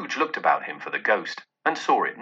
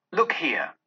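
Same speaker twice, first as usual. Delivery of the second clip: "Look here!" voiced and urgent, pitched up, not whispered; ghostly exclamation; 4 semitones higher than usual. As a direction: call his eyes downward, urgently. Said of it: "exclaimed the ghost".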